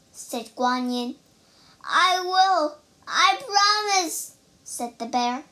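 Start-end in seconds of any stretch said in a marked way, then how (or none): 1.8-4.3 high, loud, urgent pleading; desperate promise. A narrator's reading. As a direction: give in at once, voice raised. Bear begging while in pain.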